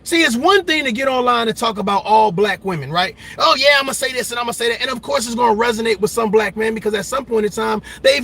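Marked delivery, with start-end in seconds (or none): 3.4-4.8 mocking quote. Mocking a ranting online guy.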